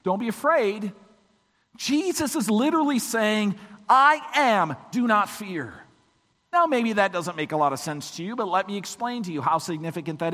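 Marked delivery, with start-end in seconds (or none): 0.0-0.9 light, higher, offhand greeting; breezy, everyday reassurance; casual self-identification. Shown as a demonstration. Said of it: "It is not just". 3.9-5.8 firm, emphatic pronouncement; weighty declaration. Shown as a demonstration. Emphatic retranslation against casual version.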